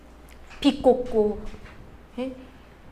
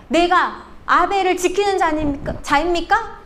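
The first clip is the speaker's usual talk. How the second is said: half-raised voice of an indignant retort; mock defiant yell; 3 semitones higher than usual. Cain yelling back at God's question, mock defiant yell. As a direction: retort with a mild, acted-out yell. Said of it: "소리 지르면서 이렇게 얘기합니다".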